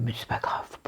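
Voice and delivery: aparté résigné à voix basse; chuchoté. Real, not acted. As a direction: glisser mais c'est pas grave en chuchotant. Resigned aside about queueing twice. (chuchotement résigné)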